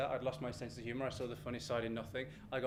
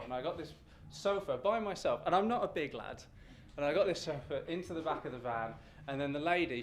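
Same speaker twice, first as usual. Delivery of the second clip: ordinary delivery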